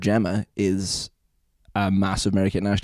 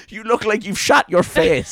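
alarmed, high and slow; imitating a shocked dad; 11 semitones higher, slower than usual. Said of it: "in, like, shocked alarm".

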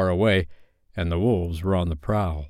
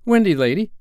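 put-on high, raised boyish address; lightly voiced excited boy; eager; 9 semitones higher, 4 dB louder than usual. A narrator's reading. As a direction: hail her eagerly in a higher voice. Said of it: "he said rapidly".

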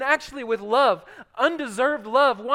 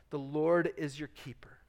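whisper; 7 semitones lower, 9 dB quieter than usual. Acted. Whispered scripture climax.

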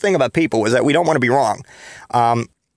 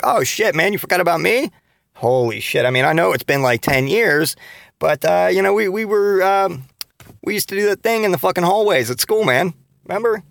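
pitched up high, eager and chummy; overeager old friend; 6 semitones higher than usual. Acted. To a stranger at CVS, faking being an old school pal, eagerly. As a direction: gush like a long-lost buddy.

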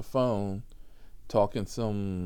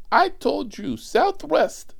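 high, loud shriek of a frantic passenger; mimicked passenger yelling; 8 dB louder, slower than usual. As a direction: scream it like the panicked rider. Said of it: "And she starts screaming".

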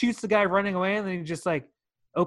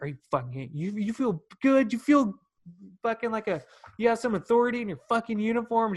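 tearing into him; 5 semitones higher, faster than usual. Retold or imitated. Parking customer rants at lot attendant, building mock anger. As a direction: chew the attendant out, pitch climbing. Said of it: "just tears that guy a new one".

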